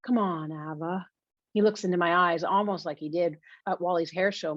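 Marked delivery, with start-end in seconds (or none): 0.1-1.1 coaxing, mildly pleading promise. Acted. Emmett promising to take care of the book, pleading. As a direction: coax them into saying yes. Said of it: "he pleads again".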